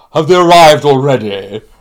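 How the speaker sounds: very loud booming voice. Retelling how everyone sat nervously waiting and heard him arrive, imitating Tom's booming voice. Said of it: "you hear this booming voice saying".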